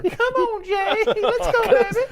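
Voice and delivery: high, squeaky 1930s cartoon voice; old-timey cartoon voice. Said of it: "it's an old-timey cartoon voice".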